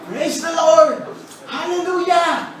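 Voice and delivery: hammed-up worshipper shouting hallelujah; ecstatic praise shouts. Preacher playing a falling Christian shouting hallelujah, building to a cry.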